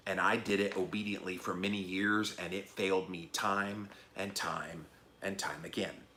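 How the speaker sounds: low, quiet, sincere testimony; subdued heartfelt confession; from the heart. Retold or imitated. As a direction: let the repetitions sink softly. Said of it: "I just spoke from the heart".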